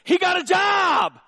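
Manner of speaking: preacher's emphatic slow shout. Real, not acted. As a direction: drive the point home loudly. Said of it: "preacher punching the point".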